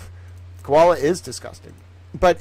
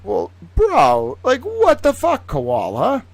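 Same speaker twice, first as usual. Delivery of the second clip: high, loud, slow indignant cry; outraged Australian yell; 10 semitones higher, 5 dB louder, much slower than usual. Retold or imitated. Australian yelling at Koala over the invasion, high and loud. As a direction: shout it up high like a wronged Australian. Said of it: "you'd be like".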